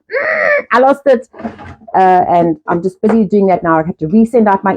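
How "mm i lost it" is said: mock whimper. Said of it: "I was like".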